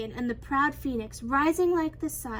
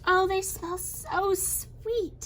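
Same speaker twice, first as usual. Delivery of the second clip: higher, slow savouring voice; delighted empress; 6 semitones higher, slower than usual. A narrator's reading. Empress admires the mooncakes, delighted. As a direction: linger longingly over the words.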